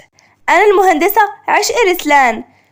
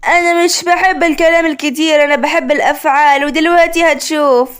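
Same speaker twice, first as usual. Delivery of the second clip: mocking her voice. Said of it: "مهند بتقليد لعشق".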